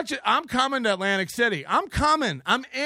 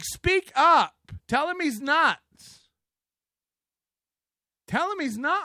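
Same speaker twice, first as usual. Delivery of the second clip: pushy shrink voice; 7 semitones higher than usual. Retold or imitated. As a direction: nudge him like a meddling therapist. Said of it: "that shrink is like".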